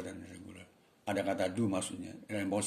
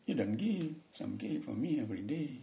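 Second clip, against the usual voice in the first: slow, light mock Balinese English accent; 4 dB quieter than usual. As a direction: softly imitate a Balinese speaker of English. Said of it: "orang Bali".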